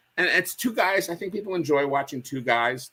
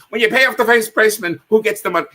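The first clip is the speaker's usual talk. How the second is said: raised, higher voice cutting back in; loud prompting; 8 semitones higher, 8 dB louder, faster than usual. Retold or imitated. Straight man steering his partner back into the routine, loud. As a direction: pull your partner back on track, loudly. Imitating Abbott pulling Costello back on track.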